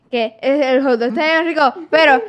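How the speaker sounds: very fast. Real, not acted. Reluctant partner blurting out the hot dog secret, very fast. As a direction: rush through it quickly. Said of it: "yo lo voy a decir bien rápido".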